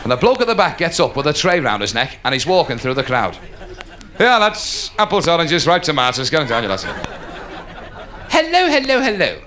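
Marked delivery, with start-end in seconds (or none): 4.2-6.9 street vendor's cry. Acted. Voicing a tray seller in crowd. 8.3-9.4 higher-pitched hack comic patter; old-time comic with a forced "ha ha"; corny club comic. Acted. Same hack comic returns.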